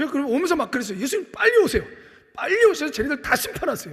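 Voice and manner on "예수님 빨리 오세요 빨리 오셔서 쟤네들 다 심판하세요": fuming, impatient, angry and heated pleading tone. Recalling how they reacted after a teacher's rebuke, the speaker is retelling own angry plea. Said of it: "승질내고 화내고".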